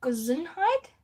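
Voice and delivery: "Gesundheit" said as ge-ZUND-heit with a rising try; sounding out "Gesundheit" for viewers; 1 trying German Gesundheit. Shown as a demonstration. Host tries the German word for chat, carefully. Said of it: "We say".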